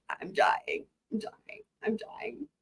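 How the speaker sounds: whispered through laughter; barely any voice left from laughing; real wheezing laugh; breathless laughter. Real, not acted.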